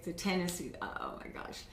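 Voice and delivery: usual speaking voice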